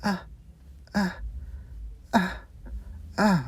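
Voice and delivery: short, spaced-out "uh" noises; isolated little grunts with pauses between; imitated grunts. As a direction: mimic overheard grunts, one at a time. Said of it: "And I just hear a".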